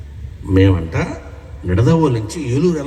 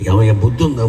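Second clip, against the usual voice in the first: the wife's scolding quote, punched harder and louder, with the hit on బుద్ధి; mock scolding wife, louder; 5 dB louder, faster than usual. Wife scolding her husband for skipping the meeting, louder mock scold. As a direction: lean on బుద్ధి like a nagging wife.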